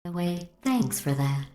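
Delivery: synthetic voice, dryly sarcastic; sarcastic thanks. Acted. AI thanking its killer, sarcastically. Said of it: "Sarcasm self-test complete".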